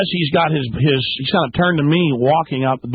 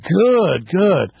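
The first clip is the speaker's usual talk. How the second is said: defiant taunt; 6 semitones higher than usual. Retold or imitated. Laughing back at the threat.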